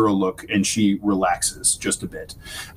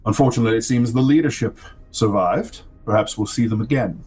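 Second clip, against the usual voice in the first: genial patron. Acted. Game master plays the patron Thrick.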